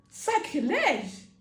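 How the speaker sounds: lent et plus fort, indigné; un cri scandalisé mais mesuré; sacrilège crié. Retold or imitated. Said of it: "Il a commencé à gueuler". (cri de sacrilège imité sans excès)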